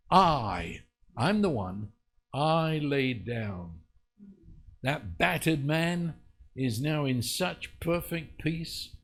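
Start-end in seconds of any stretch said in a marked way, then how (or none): 0.1-3.8 "I" leaned on and stretched; emphatic I. Acted. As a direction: claim it firmly on each "I". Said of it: "unless we just say it emphatically".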